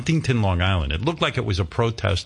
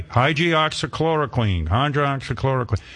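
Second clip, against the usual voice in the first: mock parroting; 5 semitones higher than usual. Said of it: "these sheep, they parrot everything".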